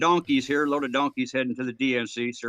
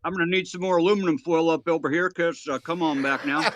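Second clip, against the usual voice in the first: trucker calling over the CB radio; 2 semitones higher than usual. Acted. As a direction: play a good-old-boy trucker on the CB. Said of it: "I see you've been on the radio too".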